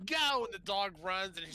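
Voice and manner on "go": imitating little girl. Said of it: "the little girl goes".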